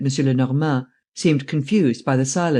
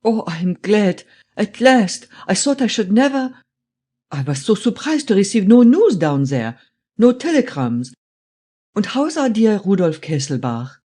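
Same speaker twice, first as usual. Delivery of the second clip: put-on high, excited German-accented old man; strong German accent; 6 semitones higher, 3 dB louder than usual. A narrator's reading. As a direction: gush joyfully in a thick German accent. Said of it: "in a strong German accent".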